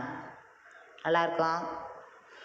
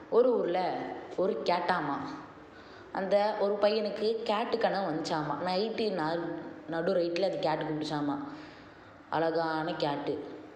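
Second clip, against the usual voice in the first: bedtime storytelling. Pretend. Player telling the baby a cat story, storytelling. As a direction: tell a tale with stretched phrase ends. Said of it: "கதை சொல்லிட்டே உட்கார்றோம்".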